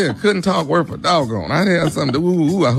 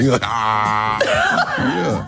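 mumbling Southern man voice. Pretend. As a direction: stammer it like the boyfriend. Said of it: "hard to hold that little character".

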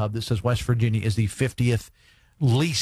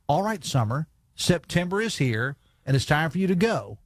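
put-on lightly done Logan County accent, rising on go on now get; 2 semitones higher than usual. Radio host to listeners, shooing summer in a light Logan County accent. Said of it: "I'm gonna do this in my best Logan County accent".

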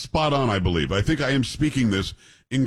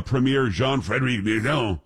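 name read as if French; French-sounding premier's name; accidental French accent. Real, not acted. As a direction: slip into French pronunciation on the name. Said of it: "I said like he's French".

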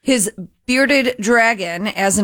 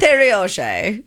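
higher Scottish-accent attempt; 4 semitones higher than usual. Newsreader repeating the man's name, attempted Scottish accent. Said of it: "Is that your Scottish accent".

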